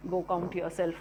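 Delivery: mock retort breaking into laughter; joking retort. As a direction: laugh through a pretend comeback. Joking mock reply to interviewer.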